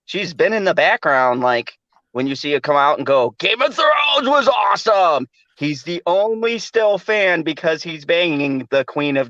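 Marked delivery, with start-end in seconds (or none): 3.4-5.3 mock enthusiastic quote. Girlfriend quoted mockingly.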